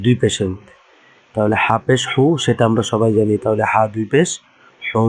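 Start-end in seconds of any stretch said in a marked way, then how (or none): 4.8-5.1 "হুং" ending in a held nasal hum; tanween ghunnah. Shown as a demonstration. Teacher showing how tanween sounds, "হুং" held nasally. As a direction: add a nasal n to the vowel and hold it: "হুং". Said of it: "হুর সাথে দন্তনা লাগিয়ে দিই".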